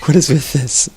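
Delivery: baffled, nearly laughing; incredulous. Real, not acted. Coach asking the player about the odd item, incredulous. Coach reacting to bad builds.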